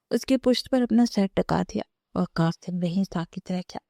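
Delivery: usual speaking voice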